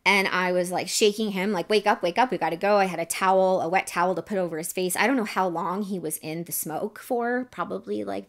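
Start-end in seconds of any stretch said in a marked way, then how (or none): 1.7-2.8 raised, urgent retold plea; urgent waking call. Woman shaking her passed-out ex in a smoky house, urgent. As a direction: rouse someone who won't wake, mildly acted.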